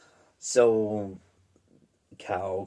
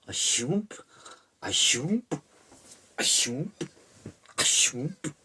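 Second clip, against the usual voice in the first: repeated "shoomp" with a rising swoop; imitated knife swishes; 5 semitones higher than usual. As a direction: voice each cut as an upswept whoosh. Imitates knife noise in retelling.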